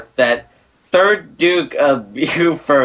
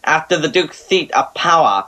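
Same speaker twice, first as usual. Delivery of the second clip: snooty voice. Acted. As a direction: read it like a snob. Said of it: "my snooty voice".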